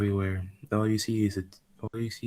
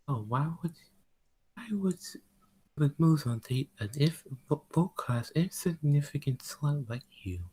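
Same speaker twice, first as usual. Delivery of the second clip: mocking; 6 semitones higher than usual. The demon girl mocks Rose.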